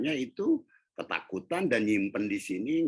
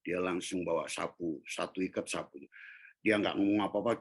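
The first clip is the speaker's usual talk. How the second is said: usual speaking voice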